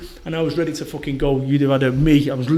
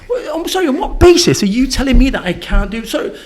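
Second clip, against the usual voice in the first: high, louder, incredulous challenge; indignant retort; 7 semitones higher, 4 dB louder than usual. Acted. To people telling him what he can't be, a high, louder indignant retort. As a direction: fire it back at whoever says you can't.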